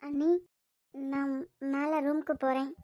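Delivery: slow down and hold back the tears; quietly tearful, slow exit line. Acted. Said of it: "கண்ணுல இருந்து தண்ணி வர".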